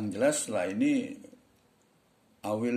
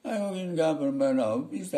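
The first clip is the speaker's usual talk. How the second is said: put-on high, loud Madurese-accented English; hammed-up Madurese English; 7 semitones higher, 6 dB louder than usual. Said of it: "orang kayak Madura juga boleh".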